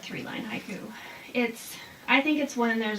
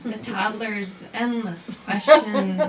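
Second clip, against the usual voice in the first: poem reading; 7 dB louder, slower than usual. Shown as a demonstration. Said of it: "Sticky rice (repeat)".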